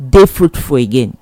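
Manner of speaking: ordinary delivery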